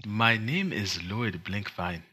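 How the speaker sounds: slow mock Wakandan accent, second take. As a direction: deliver the name slowly in a Wakandan accent. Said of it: "proud of my Wakandan accent".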